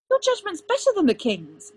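high, loud retort; heated, loyal contradiction; arguing back. A narrator's reading. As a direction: insist loudly, pitched right up. Merlin argues back in quarrel.

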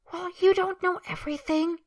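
high, loud, petulant retort; sulky. Acted. Man defends himself to his companion, sulky and high-pitched. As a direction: snap back in a huff. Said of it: "Draco says sulkily".

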